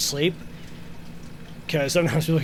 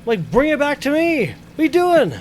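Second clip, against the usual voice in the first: retold exasperated yell; 5 semitones higher than usual. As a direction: play the outraged coworker, building up. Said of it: "I was like".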